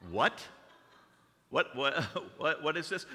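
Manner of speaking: stammered, incredulous mock reaction; acted bafflement. Host reacting to a guest's grand claim, mock bafflement. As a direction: trip over it in mock disbelief.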